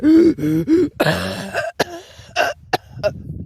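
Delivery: high, loud wheeze breaking into coughs; imitated wheezy coughing. Showing how the walk sounded, imitated wheezy coughing. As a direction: demonstrate a struggling, hacking fit. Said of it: "Like that, you know".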